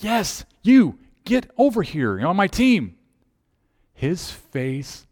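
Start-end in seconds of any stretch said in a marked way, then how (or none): 0.0-3.0 high, emphatic summons; insistent calling out. Retold or imitated. Captain calling a disbelieving boy to his team, insistent high call. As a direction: call him over, leaving no doubt.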